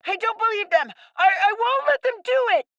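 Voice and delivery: angry refusal. Acted. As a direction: stand your ground against the adults. Boy refuses.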